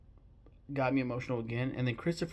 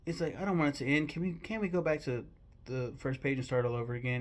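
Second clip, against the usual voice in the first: a hint of a pleading storybook bear; lightly voiced Winnie the Pooh; 3 semitones higher than usual. Pooh Bear begging to restart the story, lightly imitated plea. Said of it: "then he looks up and goes".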